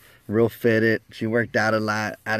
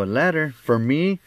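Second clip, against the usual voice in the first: acted surprise; 5 semitones higher than usual. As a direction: pitch lifts in surprised questions. Reacts to being handed a letter.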